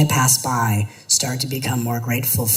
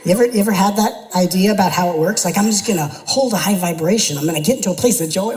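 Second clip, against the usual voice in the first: mock excited; 5 semitones higher, 4 dB louder, faster than usual. Mocking spiritual cliché, excited.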